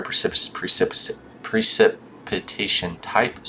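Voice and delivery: talking with swollen gums. Real, not acted. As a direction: speak around sore swollen gums. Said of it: "my mouth is swollen".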